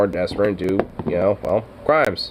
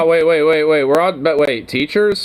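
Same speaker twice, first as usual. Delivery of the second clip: incredulous; 5 semitones higher, 3 dB louder than usual. Real, not acted. Interrupting in disbelief.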